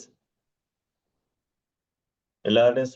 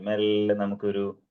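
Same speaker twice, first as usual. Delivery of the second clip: slow and lower, മെല്ലെ stretched long; 4 semitones lower, slower than usual. Shown as a demonstration. Teacher showing Edwin how to slow down, drawn out. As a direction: draw out മെല്ലെ to model slowness. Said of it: "slow ആയിട്ട് പറഞ്ഞാ മതി".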